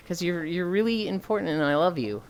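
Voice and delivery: mock sincere guilt trip; guilt-tripping. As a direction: lay on the guilt, half joking. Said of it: "I can try to guilt trip you".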